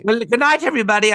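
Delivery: high sign-off voice; sketch host. Retold or imitated. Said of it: "I did Tales of Ribaldry".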